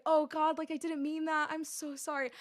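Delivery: high-pitched retold backpedal; flustered apology. Caster covers up a bad joke, flustered apology. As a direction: apologize in a mild mock fluster. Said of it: "I tried to cover up so hard".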